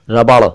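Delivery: रबड़ ending on a flapped ड़; correct flap. Shown as a demonstration. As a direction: finish रबड़ with a tongue flick. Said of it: "पहले र, फिर ब और फिर ड़".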